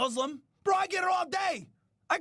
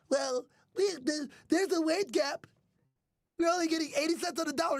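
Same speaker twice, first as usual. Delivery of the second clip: mock feminist. Mocking feminists.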